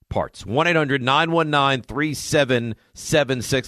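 upbeat radio ad read. Acted. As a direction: read it like a live sponsor spot. Host reads a sponsor ad.

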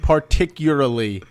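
"particularly" with an L swallowed; skipping an L. Shown as a demonstration. Co-host correcting his partner, "particularly" missing an L. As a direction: correct him with "particularly", dropping one L. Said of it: "you're skipping a fucking L".

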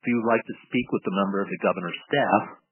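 recorded automated phone menu; canned voicemail prompt over the line. Retold or imitated. Got this message.

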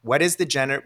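normal talking voice

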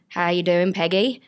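attempted Kiwi accent; lightly done Kiwi accent; New Zealand accent. Shown as a demonstration. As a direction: have a rough go at New Zealand. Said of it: "Do New Zealand".

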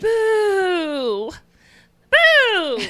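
spooky ghost boo, loud and high; ghostly boo. Pretend. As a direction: jump out and scare like a ghost. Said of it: "are you, are you trying to yell at me or startle me".

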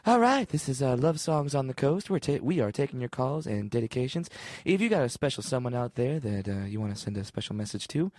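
lightly voiced smooth love-songs DJ; a hint of a soothing nighttime host; late-night radio host. Playing Delilah for a fake caller, light radio-host voice. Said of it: "So you be Delilah".

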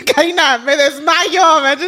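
laughing through the words; nervous laughter. Real, not acted. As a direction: giggle while you speak. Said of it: "I'm laughing because I have actually major fear of planes".

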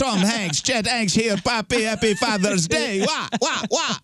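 high, hammed-up fake Jamaican patter; sing-song fake Jamaican rapper greeting; mock Jamaican accent. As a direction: fake Jamaican accent wishing dad happy Father's Day. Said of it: "raps in a fake Jamaican accent".

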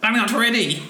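castle voice. Acted. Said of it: "I don't know why a castle speaks like that".

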